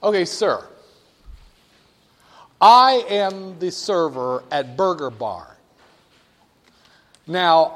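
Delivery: slow, loud salesman's pitch; a server pitching a customer, drawn out and loud; burger server. Acted. Pitching a customer at Burger Barn, slow and loud. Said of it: "let me try this".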